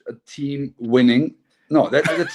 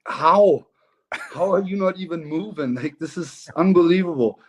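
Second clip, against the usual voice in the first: higher-pitched incredulous questioning; retold disbelief; 4 semitones higher than usual. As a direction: recall being baffled by an immovable opponent. Recalling frustration at an unmovable opponent.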